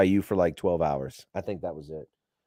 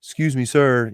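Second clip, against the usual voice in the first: polite wake-up call; 4 semitones higher, 3 dB louder than usual. Shown as a demonstration. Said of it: "You don't bang on it like that".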